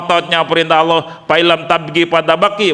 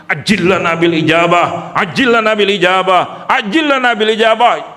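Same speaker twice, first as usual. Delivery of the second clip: imitating the teacher's prayer; 4 semitones higher than usual. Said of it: "Guru tuh pernah tuh ngedoa".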